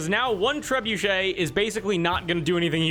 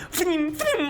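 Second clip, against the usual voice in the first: bow sound voice; 10 semitones higher than usual. Acted. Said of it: "they're like".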